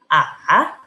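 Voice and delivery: A dipping then rising; tone three. Shown as a demonstration. Teacher quizzing tone three on A. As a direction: dip A low and back up. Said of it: "Nada ketiga?".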